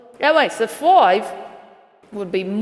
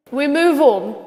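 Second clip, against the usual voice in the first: "We move on" in a louder, higher put-on Australian accent; fake Aussie accent; 4 semitones higher, 5 dB louder than usual. Vlogger moving the show on, "We move on" in fake Australian. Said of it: "Now let's switch back".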